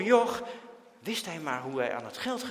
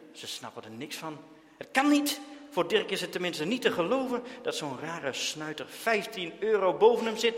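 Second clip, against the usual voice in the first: usual speaking voice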